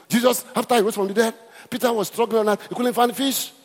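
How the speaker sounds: lightly voiced preacher telling it.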